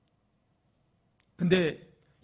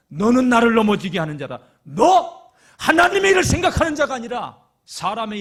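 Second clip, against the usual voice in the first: loud, cutting rebuke; stern rebuke; 6 semitones higher, 15 dB louder than usual. Acted. Jesus loudly rebukes Peter before the disciples. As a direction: shame him in front of everyone.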